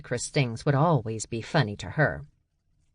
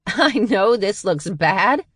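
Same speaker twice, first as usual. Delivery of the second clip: higher, louder, slow incredulous echo; mocking disbelief; 6 semitones higher, 5 dB louder, slower than usual. A narrator's reading. Charlie mocking Dutch's excuse, laughing disbelief. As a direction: throw his words back at him, laughing. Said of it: "Charlie laughed".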